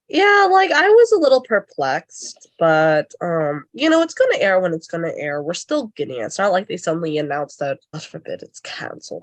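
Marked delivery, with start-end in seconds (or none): 7.9-9.2 very quiet whispered aside. Adding a quick aside mid-sentence while chatting with co-hosts: whispering. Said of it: "I had to whisper that".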